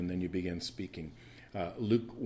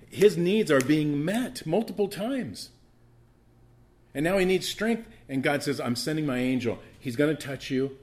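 raised, forceful sermon delivery; emphatic preaching; 5 semitones higher, 6 dB louder than usual. Real, not acted. Preacher telling the church Daniel was touched three times, emphatic preaching. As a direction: drive each point home to the congregation.

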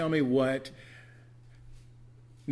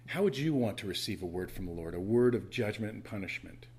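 ordinary talk

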